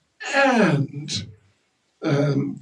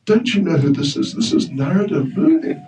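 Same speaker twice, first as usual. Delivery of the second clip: chastising; 5 semitones higher than usual. Acted. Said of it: "came and chastised Hanuman".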